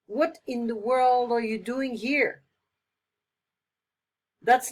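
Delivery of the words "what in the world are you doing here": louder astonished question; louder what in the world; surprised. Shown as a demonstration. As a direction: greet a surprise visitor. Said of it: "express surprise this way".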